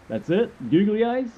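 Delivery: high, disbelieving question; incredulous. Pretend. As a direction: ask it in disbelief. Imagined incredulous reply.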